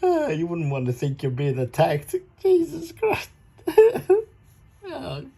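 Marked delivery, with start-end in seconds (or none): 2.4-5.2 laughing exclamation. Real, not acted.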